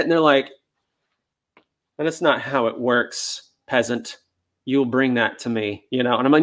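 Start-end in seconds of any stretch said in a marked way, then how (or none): 2.0-5.8 haughty dog. Pretend. A spoiled dog refusing to come for food, haughty. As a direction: talk down to a servant, unhurried.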